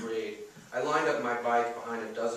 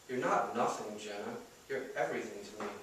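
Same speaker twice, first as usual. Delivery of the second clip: tender comfort; 5 dB quieter, faster than usual. Acted. Comforting crying Jenna.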